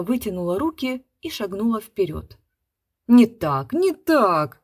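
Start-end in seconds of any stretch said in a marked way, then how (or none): 3.1-4.6 loud stern interruption; director stopping her. A narrator's reading. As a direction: cut her off firmly. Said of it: "остановил режиссёр".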